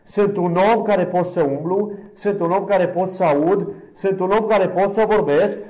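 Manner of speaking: high, loud plea building line by line; fervent prayer outcry. Retold or imitated. Preacher reliving his thankful prayer to God, fervent outcry.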